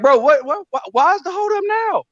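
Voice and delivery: high, pushed-up exasperated questioning; exasperated quote. Retold or imitated. Asking a boxing promoter why the fight is held up, exasperated. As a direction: act fed up with the delays. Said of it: "I'm like".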